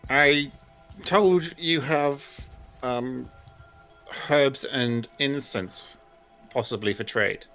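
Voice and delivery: character voice. Acted. Player voices her character.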